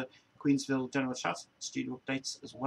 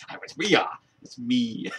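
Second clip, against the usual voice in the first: mock Pauly; 8 dB louder, slower than usual. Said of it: "He goes".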